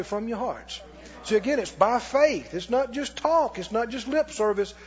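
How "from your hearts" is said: "From your hearts" said soft and quick; softer echo. Shown as a demonstration. Congregation repeats the preacher's phrase, softer. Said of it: "Everybody say".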